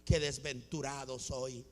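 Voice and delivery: low, soft self-pitying moan; mock lament. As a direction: moan it quietly, feeling sorry for yourself. (lamento fingido, quejumbroso)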